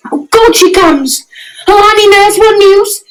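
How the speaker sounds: eager, rising voice; bursting with impatience; excited. Acted. Juliet sees nurse arrive.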